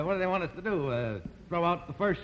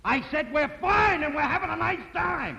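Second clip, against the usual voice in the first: louder again for the phone; 7 semitones higher than usual. Acted. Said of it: "You must speak a little louder".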